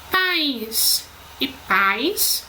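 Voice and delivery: slow contrast, "País" stressed on the í, "pais" as one syllable; careful teacher's minimal pair. Shown as a demonstration. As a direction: say "País e pais" very slowly, the first in two syllables, the second in one. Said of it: "se não estiverem acentuadas".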